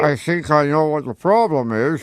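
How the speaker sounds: slow, put-on grown-up father voice; a kid faking his own dad, drawn out and slow; hammed-up fake father, slow and deliberate. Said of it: "You think I'm my son".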